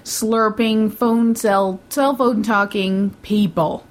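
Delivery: slow, drawn-out list of disgust; disgusted rant. Real, not acted. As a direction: spit out each offence one at a time. Mock rant listing annoying moviegoers.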